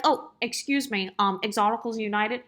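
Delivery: imitating a coworker's little nerdy sitcom voice; Urkel. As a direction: lightly mimic the coworker's Urkel-like accent. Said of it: "he says it in his, like, little Urkel accent".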